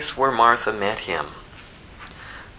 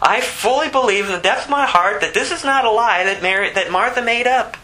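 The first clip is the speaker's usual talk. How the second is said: higher-pitched, emphatic preacher; impassioned preaching; 8 semitones higher than usual. Real, not acted. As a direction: press the conviction home, pitched up. Preaches with rising force.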